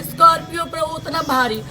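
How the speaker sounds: distraught shout. Real, not acted. Widow distraught, shout heard.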